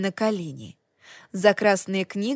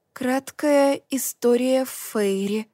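slow, wondering read of a title; 3 semitones higher, slower than usual. Acted. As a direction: sound out each word slowly. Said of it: "she reads the title slowly".

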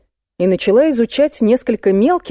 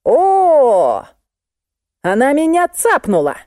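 high startled cry of pain; startled yelp; 8 semitones higher, slower than usual. A narrator's reading. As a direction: pitch jumps way up on a sudden bite. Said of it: "завизжал вдруг Виноградов".

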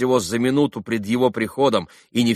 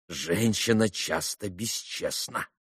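softer, slow grinding words; grating; 7 dB quieter, slower than usual. A narrator's reading. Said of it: "проскрежетала она".

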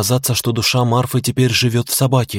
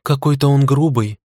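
amused huff; 3 semitones higher than usual. Acted. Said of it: "хмыкнула Цуки".

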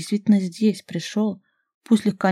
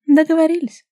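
much higher, loud delighted deal; happy agreement; 10 semitones higher, 8 dB louder than usual. A narrator's reading. Vasilisa gleefully agrees with Robert. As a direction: seal it gleefully. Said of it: "согласилась".

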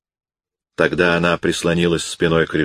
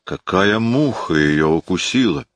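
grumbling. Acted. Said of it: "ворча сквозь зубы".

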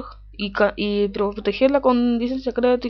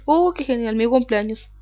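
excited; 3 semitones higher, 4 dB louder than usual. Real, not acted. Reads his birthday date.

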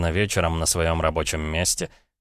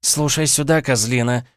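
higher, louder venomous hiss; hissed fury; 5 semitones higher, 3 dB louder than usual. A narrator's reading. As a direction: spit it down the phone. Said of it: "прошипела она в трубку".

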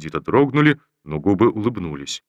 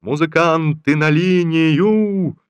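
slow, high, loud command from afar; parade command; 8 semitones higher, 5 dB louder, much slower than usual. Acted. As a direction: call the regiment to attention. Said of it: "донеслась издали команда Шульговича".

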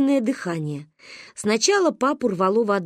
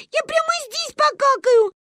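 high-pitched wailing threat; crying child. A narrator's reading. Granddaughter pulling at her pants, tearful wail. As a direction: whine it out in a small child's voice. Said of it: "плакала Гайне".

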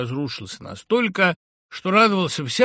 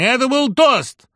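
angry shout; 13 semitones higher, 11 dB louder, slower than usual. A narrator's reading. Continues the shout.

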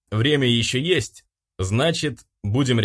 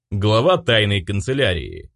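ordinary delivery, nothing marked

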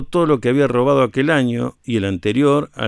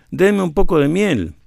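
higher calling voice, pitched up to the tree; a raised plea for honey from below; 7 semitones higher, 3 dB louder than usual. A narrator's reading. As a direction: call up to the hunters in the tree.

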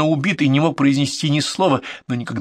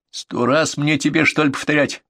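ordinary delivery, nothing marked

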